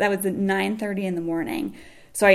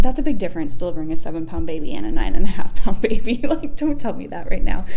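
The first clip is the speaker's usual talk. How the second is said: retold freak-out; 4 dB louder, faster than usual. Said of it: "freaking out".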